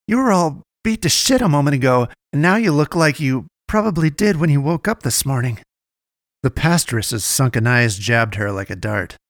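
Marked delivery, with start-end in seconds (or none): 0.1-5.6 higher and louder, disbelieving; incredulous outburst. Acted. Naomi confronting the healed girl, incredulous. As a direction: hurl it at her in disbelief.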